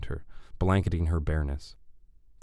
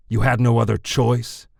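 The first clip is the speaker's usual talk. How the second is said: drawled; 5 semitones higher, 8 dB louder than usual. A narrator's reading. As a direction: throw it back as a mocking question. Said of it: "Anton drawled".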